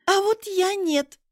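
high, loud, drawn-out retort; indignant rebuff. A narrator's reading. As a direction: throw it back at him defiantly. Rebuffs his glad greeting.

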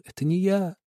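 high, anxious repeated denial; insistent pleading. A narrator's reading. Boy keeps denying to the family, anxious. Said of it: "и только твердил".

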